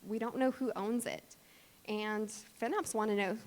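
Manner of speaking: usual speaking voice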